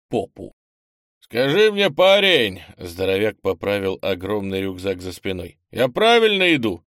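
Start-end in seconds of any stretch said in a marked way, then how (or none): 1.2-2.6 loud, high booming hail; boisterous shouted greeting; burly stranger, hearty. Acted. 5.7-6.8 loud, high booming hail; boisterous shouted greeting; burly stranger, hearty. Acted.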